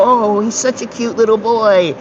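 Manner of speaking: high mock cooing; imitated gushing adult. Most people looking at a little boy, imitated gushing. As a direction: coo it high, as if doting on a child.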